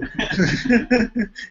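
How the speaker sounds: high burst of laughter; amused laugh; real laugh. Real, not acted. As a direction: laugh at the absurdity. Laughs at own joke.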